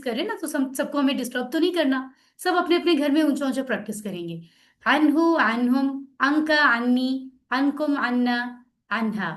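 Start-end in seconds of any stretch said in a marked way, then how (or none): 4.9-9.3 slow practice read. Shown as a demonstration. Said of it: "मेरे साथ ऊंची आवाज में प्रैक्टिस करें".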